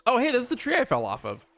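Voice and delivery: high, bright excited exclamation. Real, not acted. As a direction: excitedly point it out. Spots the tree in game.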